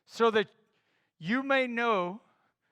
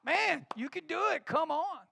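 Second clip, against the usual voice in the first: upbeat, higher-pitched cheering on; encouraging coach; 7 semitones higher, 4 dB louder than usual. Shown as a demonstration. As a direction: cheer your kid on from the field. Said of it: "I can look at my kids and I'll be like".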